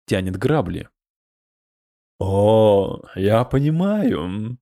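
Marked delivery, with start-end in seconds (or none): 2.2-4.6 smirking. Acted. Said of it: "ухмыльнулся тот".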